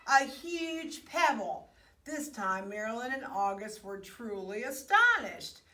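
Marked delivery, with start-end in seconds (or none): 0.1-1.7 higher, louder, proud call; triumphant shout. A narrator's reading. Jessica showing friends her find, triumphant. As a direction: announce the find with pride. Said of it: "she shouted triumphantly".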